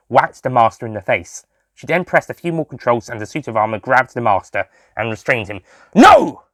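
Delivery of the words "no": loud, high cry of no. A narrator's reading. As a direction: cry out in defeat. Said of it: "the master cried out".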